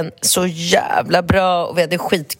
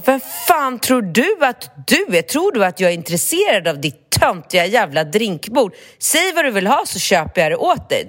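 put-on teenage snark; 4 semitones higher than usual. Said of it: "jag blev så här skitpubbig".

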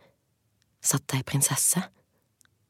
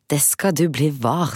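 defiant hero; 5 dB louder than usual. Acted. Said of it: "sa Halvor".

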